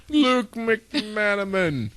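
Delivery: slow, high announcer read. Acted. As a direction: boom the name like a TV announcer. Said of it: "I hope I pronounce his name like that every time".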